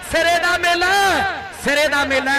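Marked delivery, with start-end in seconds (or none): 0.1-0.9 shouting to the crowd; excited shout. Real, not acted. Commentator shouting crowd hype.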